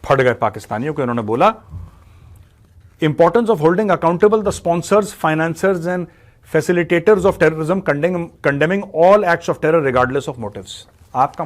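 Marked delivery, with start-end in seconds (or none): 3.0-10.7 slow, loud, level official reading; Doval's flat monotone. Retold or imitated. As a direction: read it out like a stern official statement, word by word. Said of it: "अपने flat monotone में बोला". (धीमी, ऊँची, सपाट सरकारी आवाज़ में)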